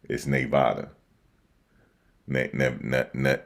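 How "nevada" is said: "Nevada" as nay-VAH-duh, falling at the end; own accented pronunciation. Shown as a demonstration. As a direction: state "Nevada" with a NAY first syllable. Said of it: "it's my accent".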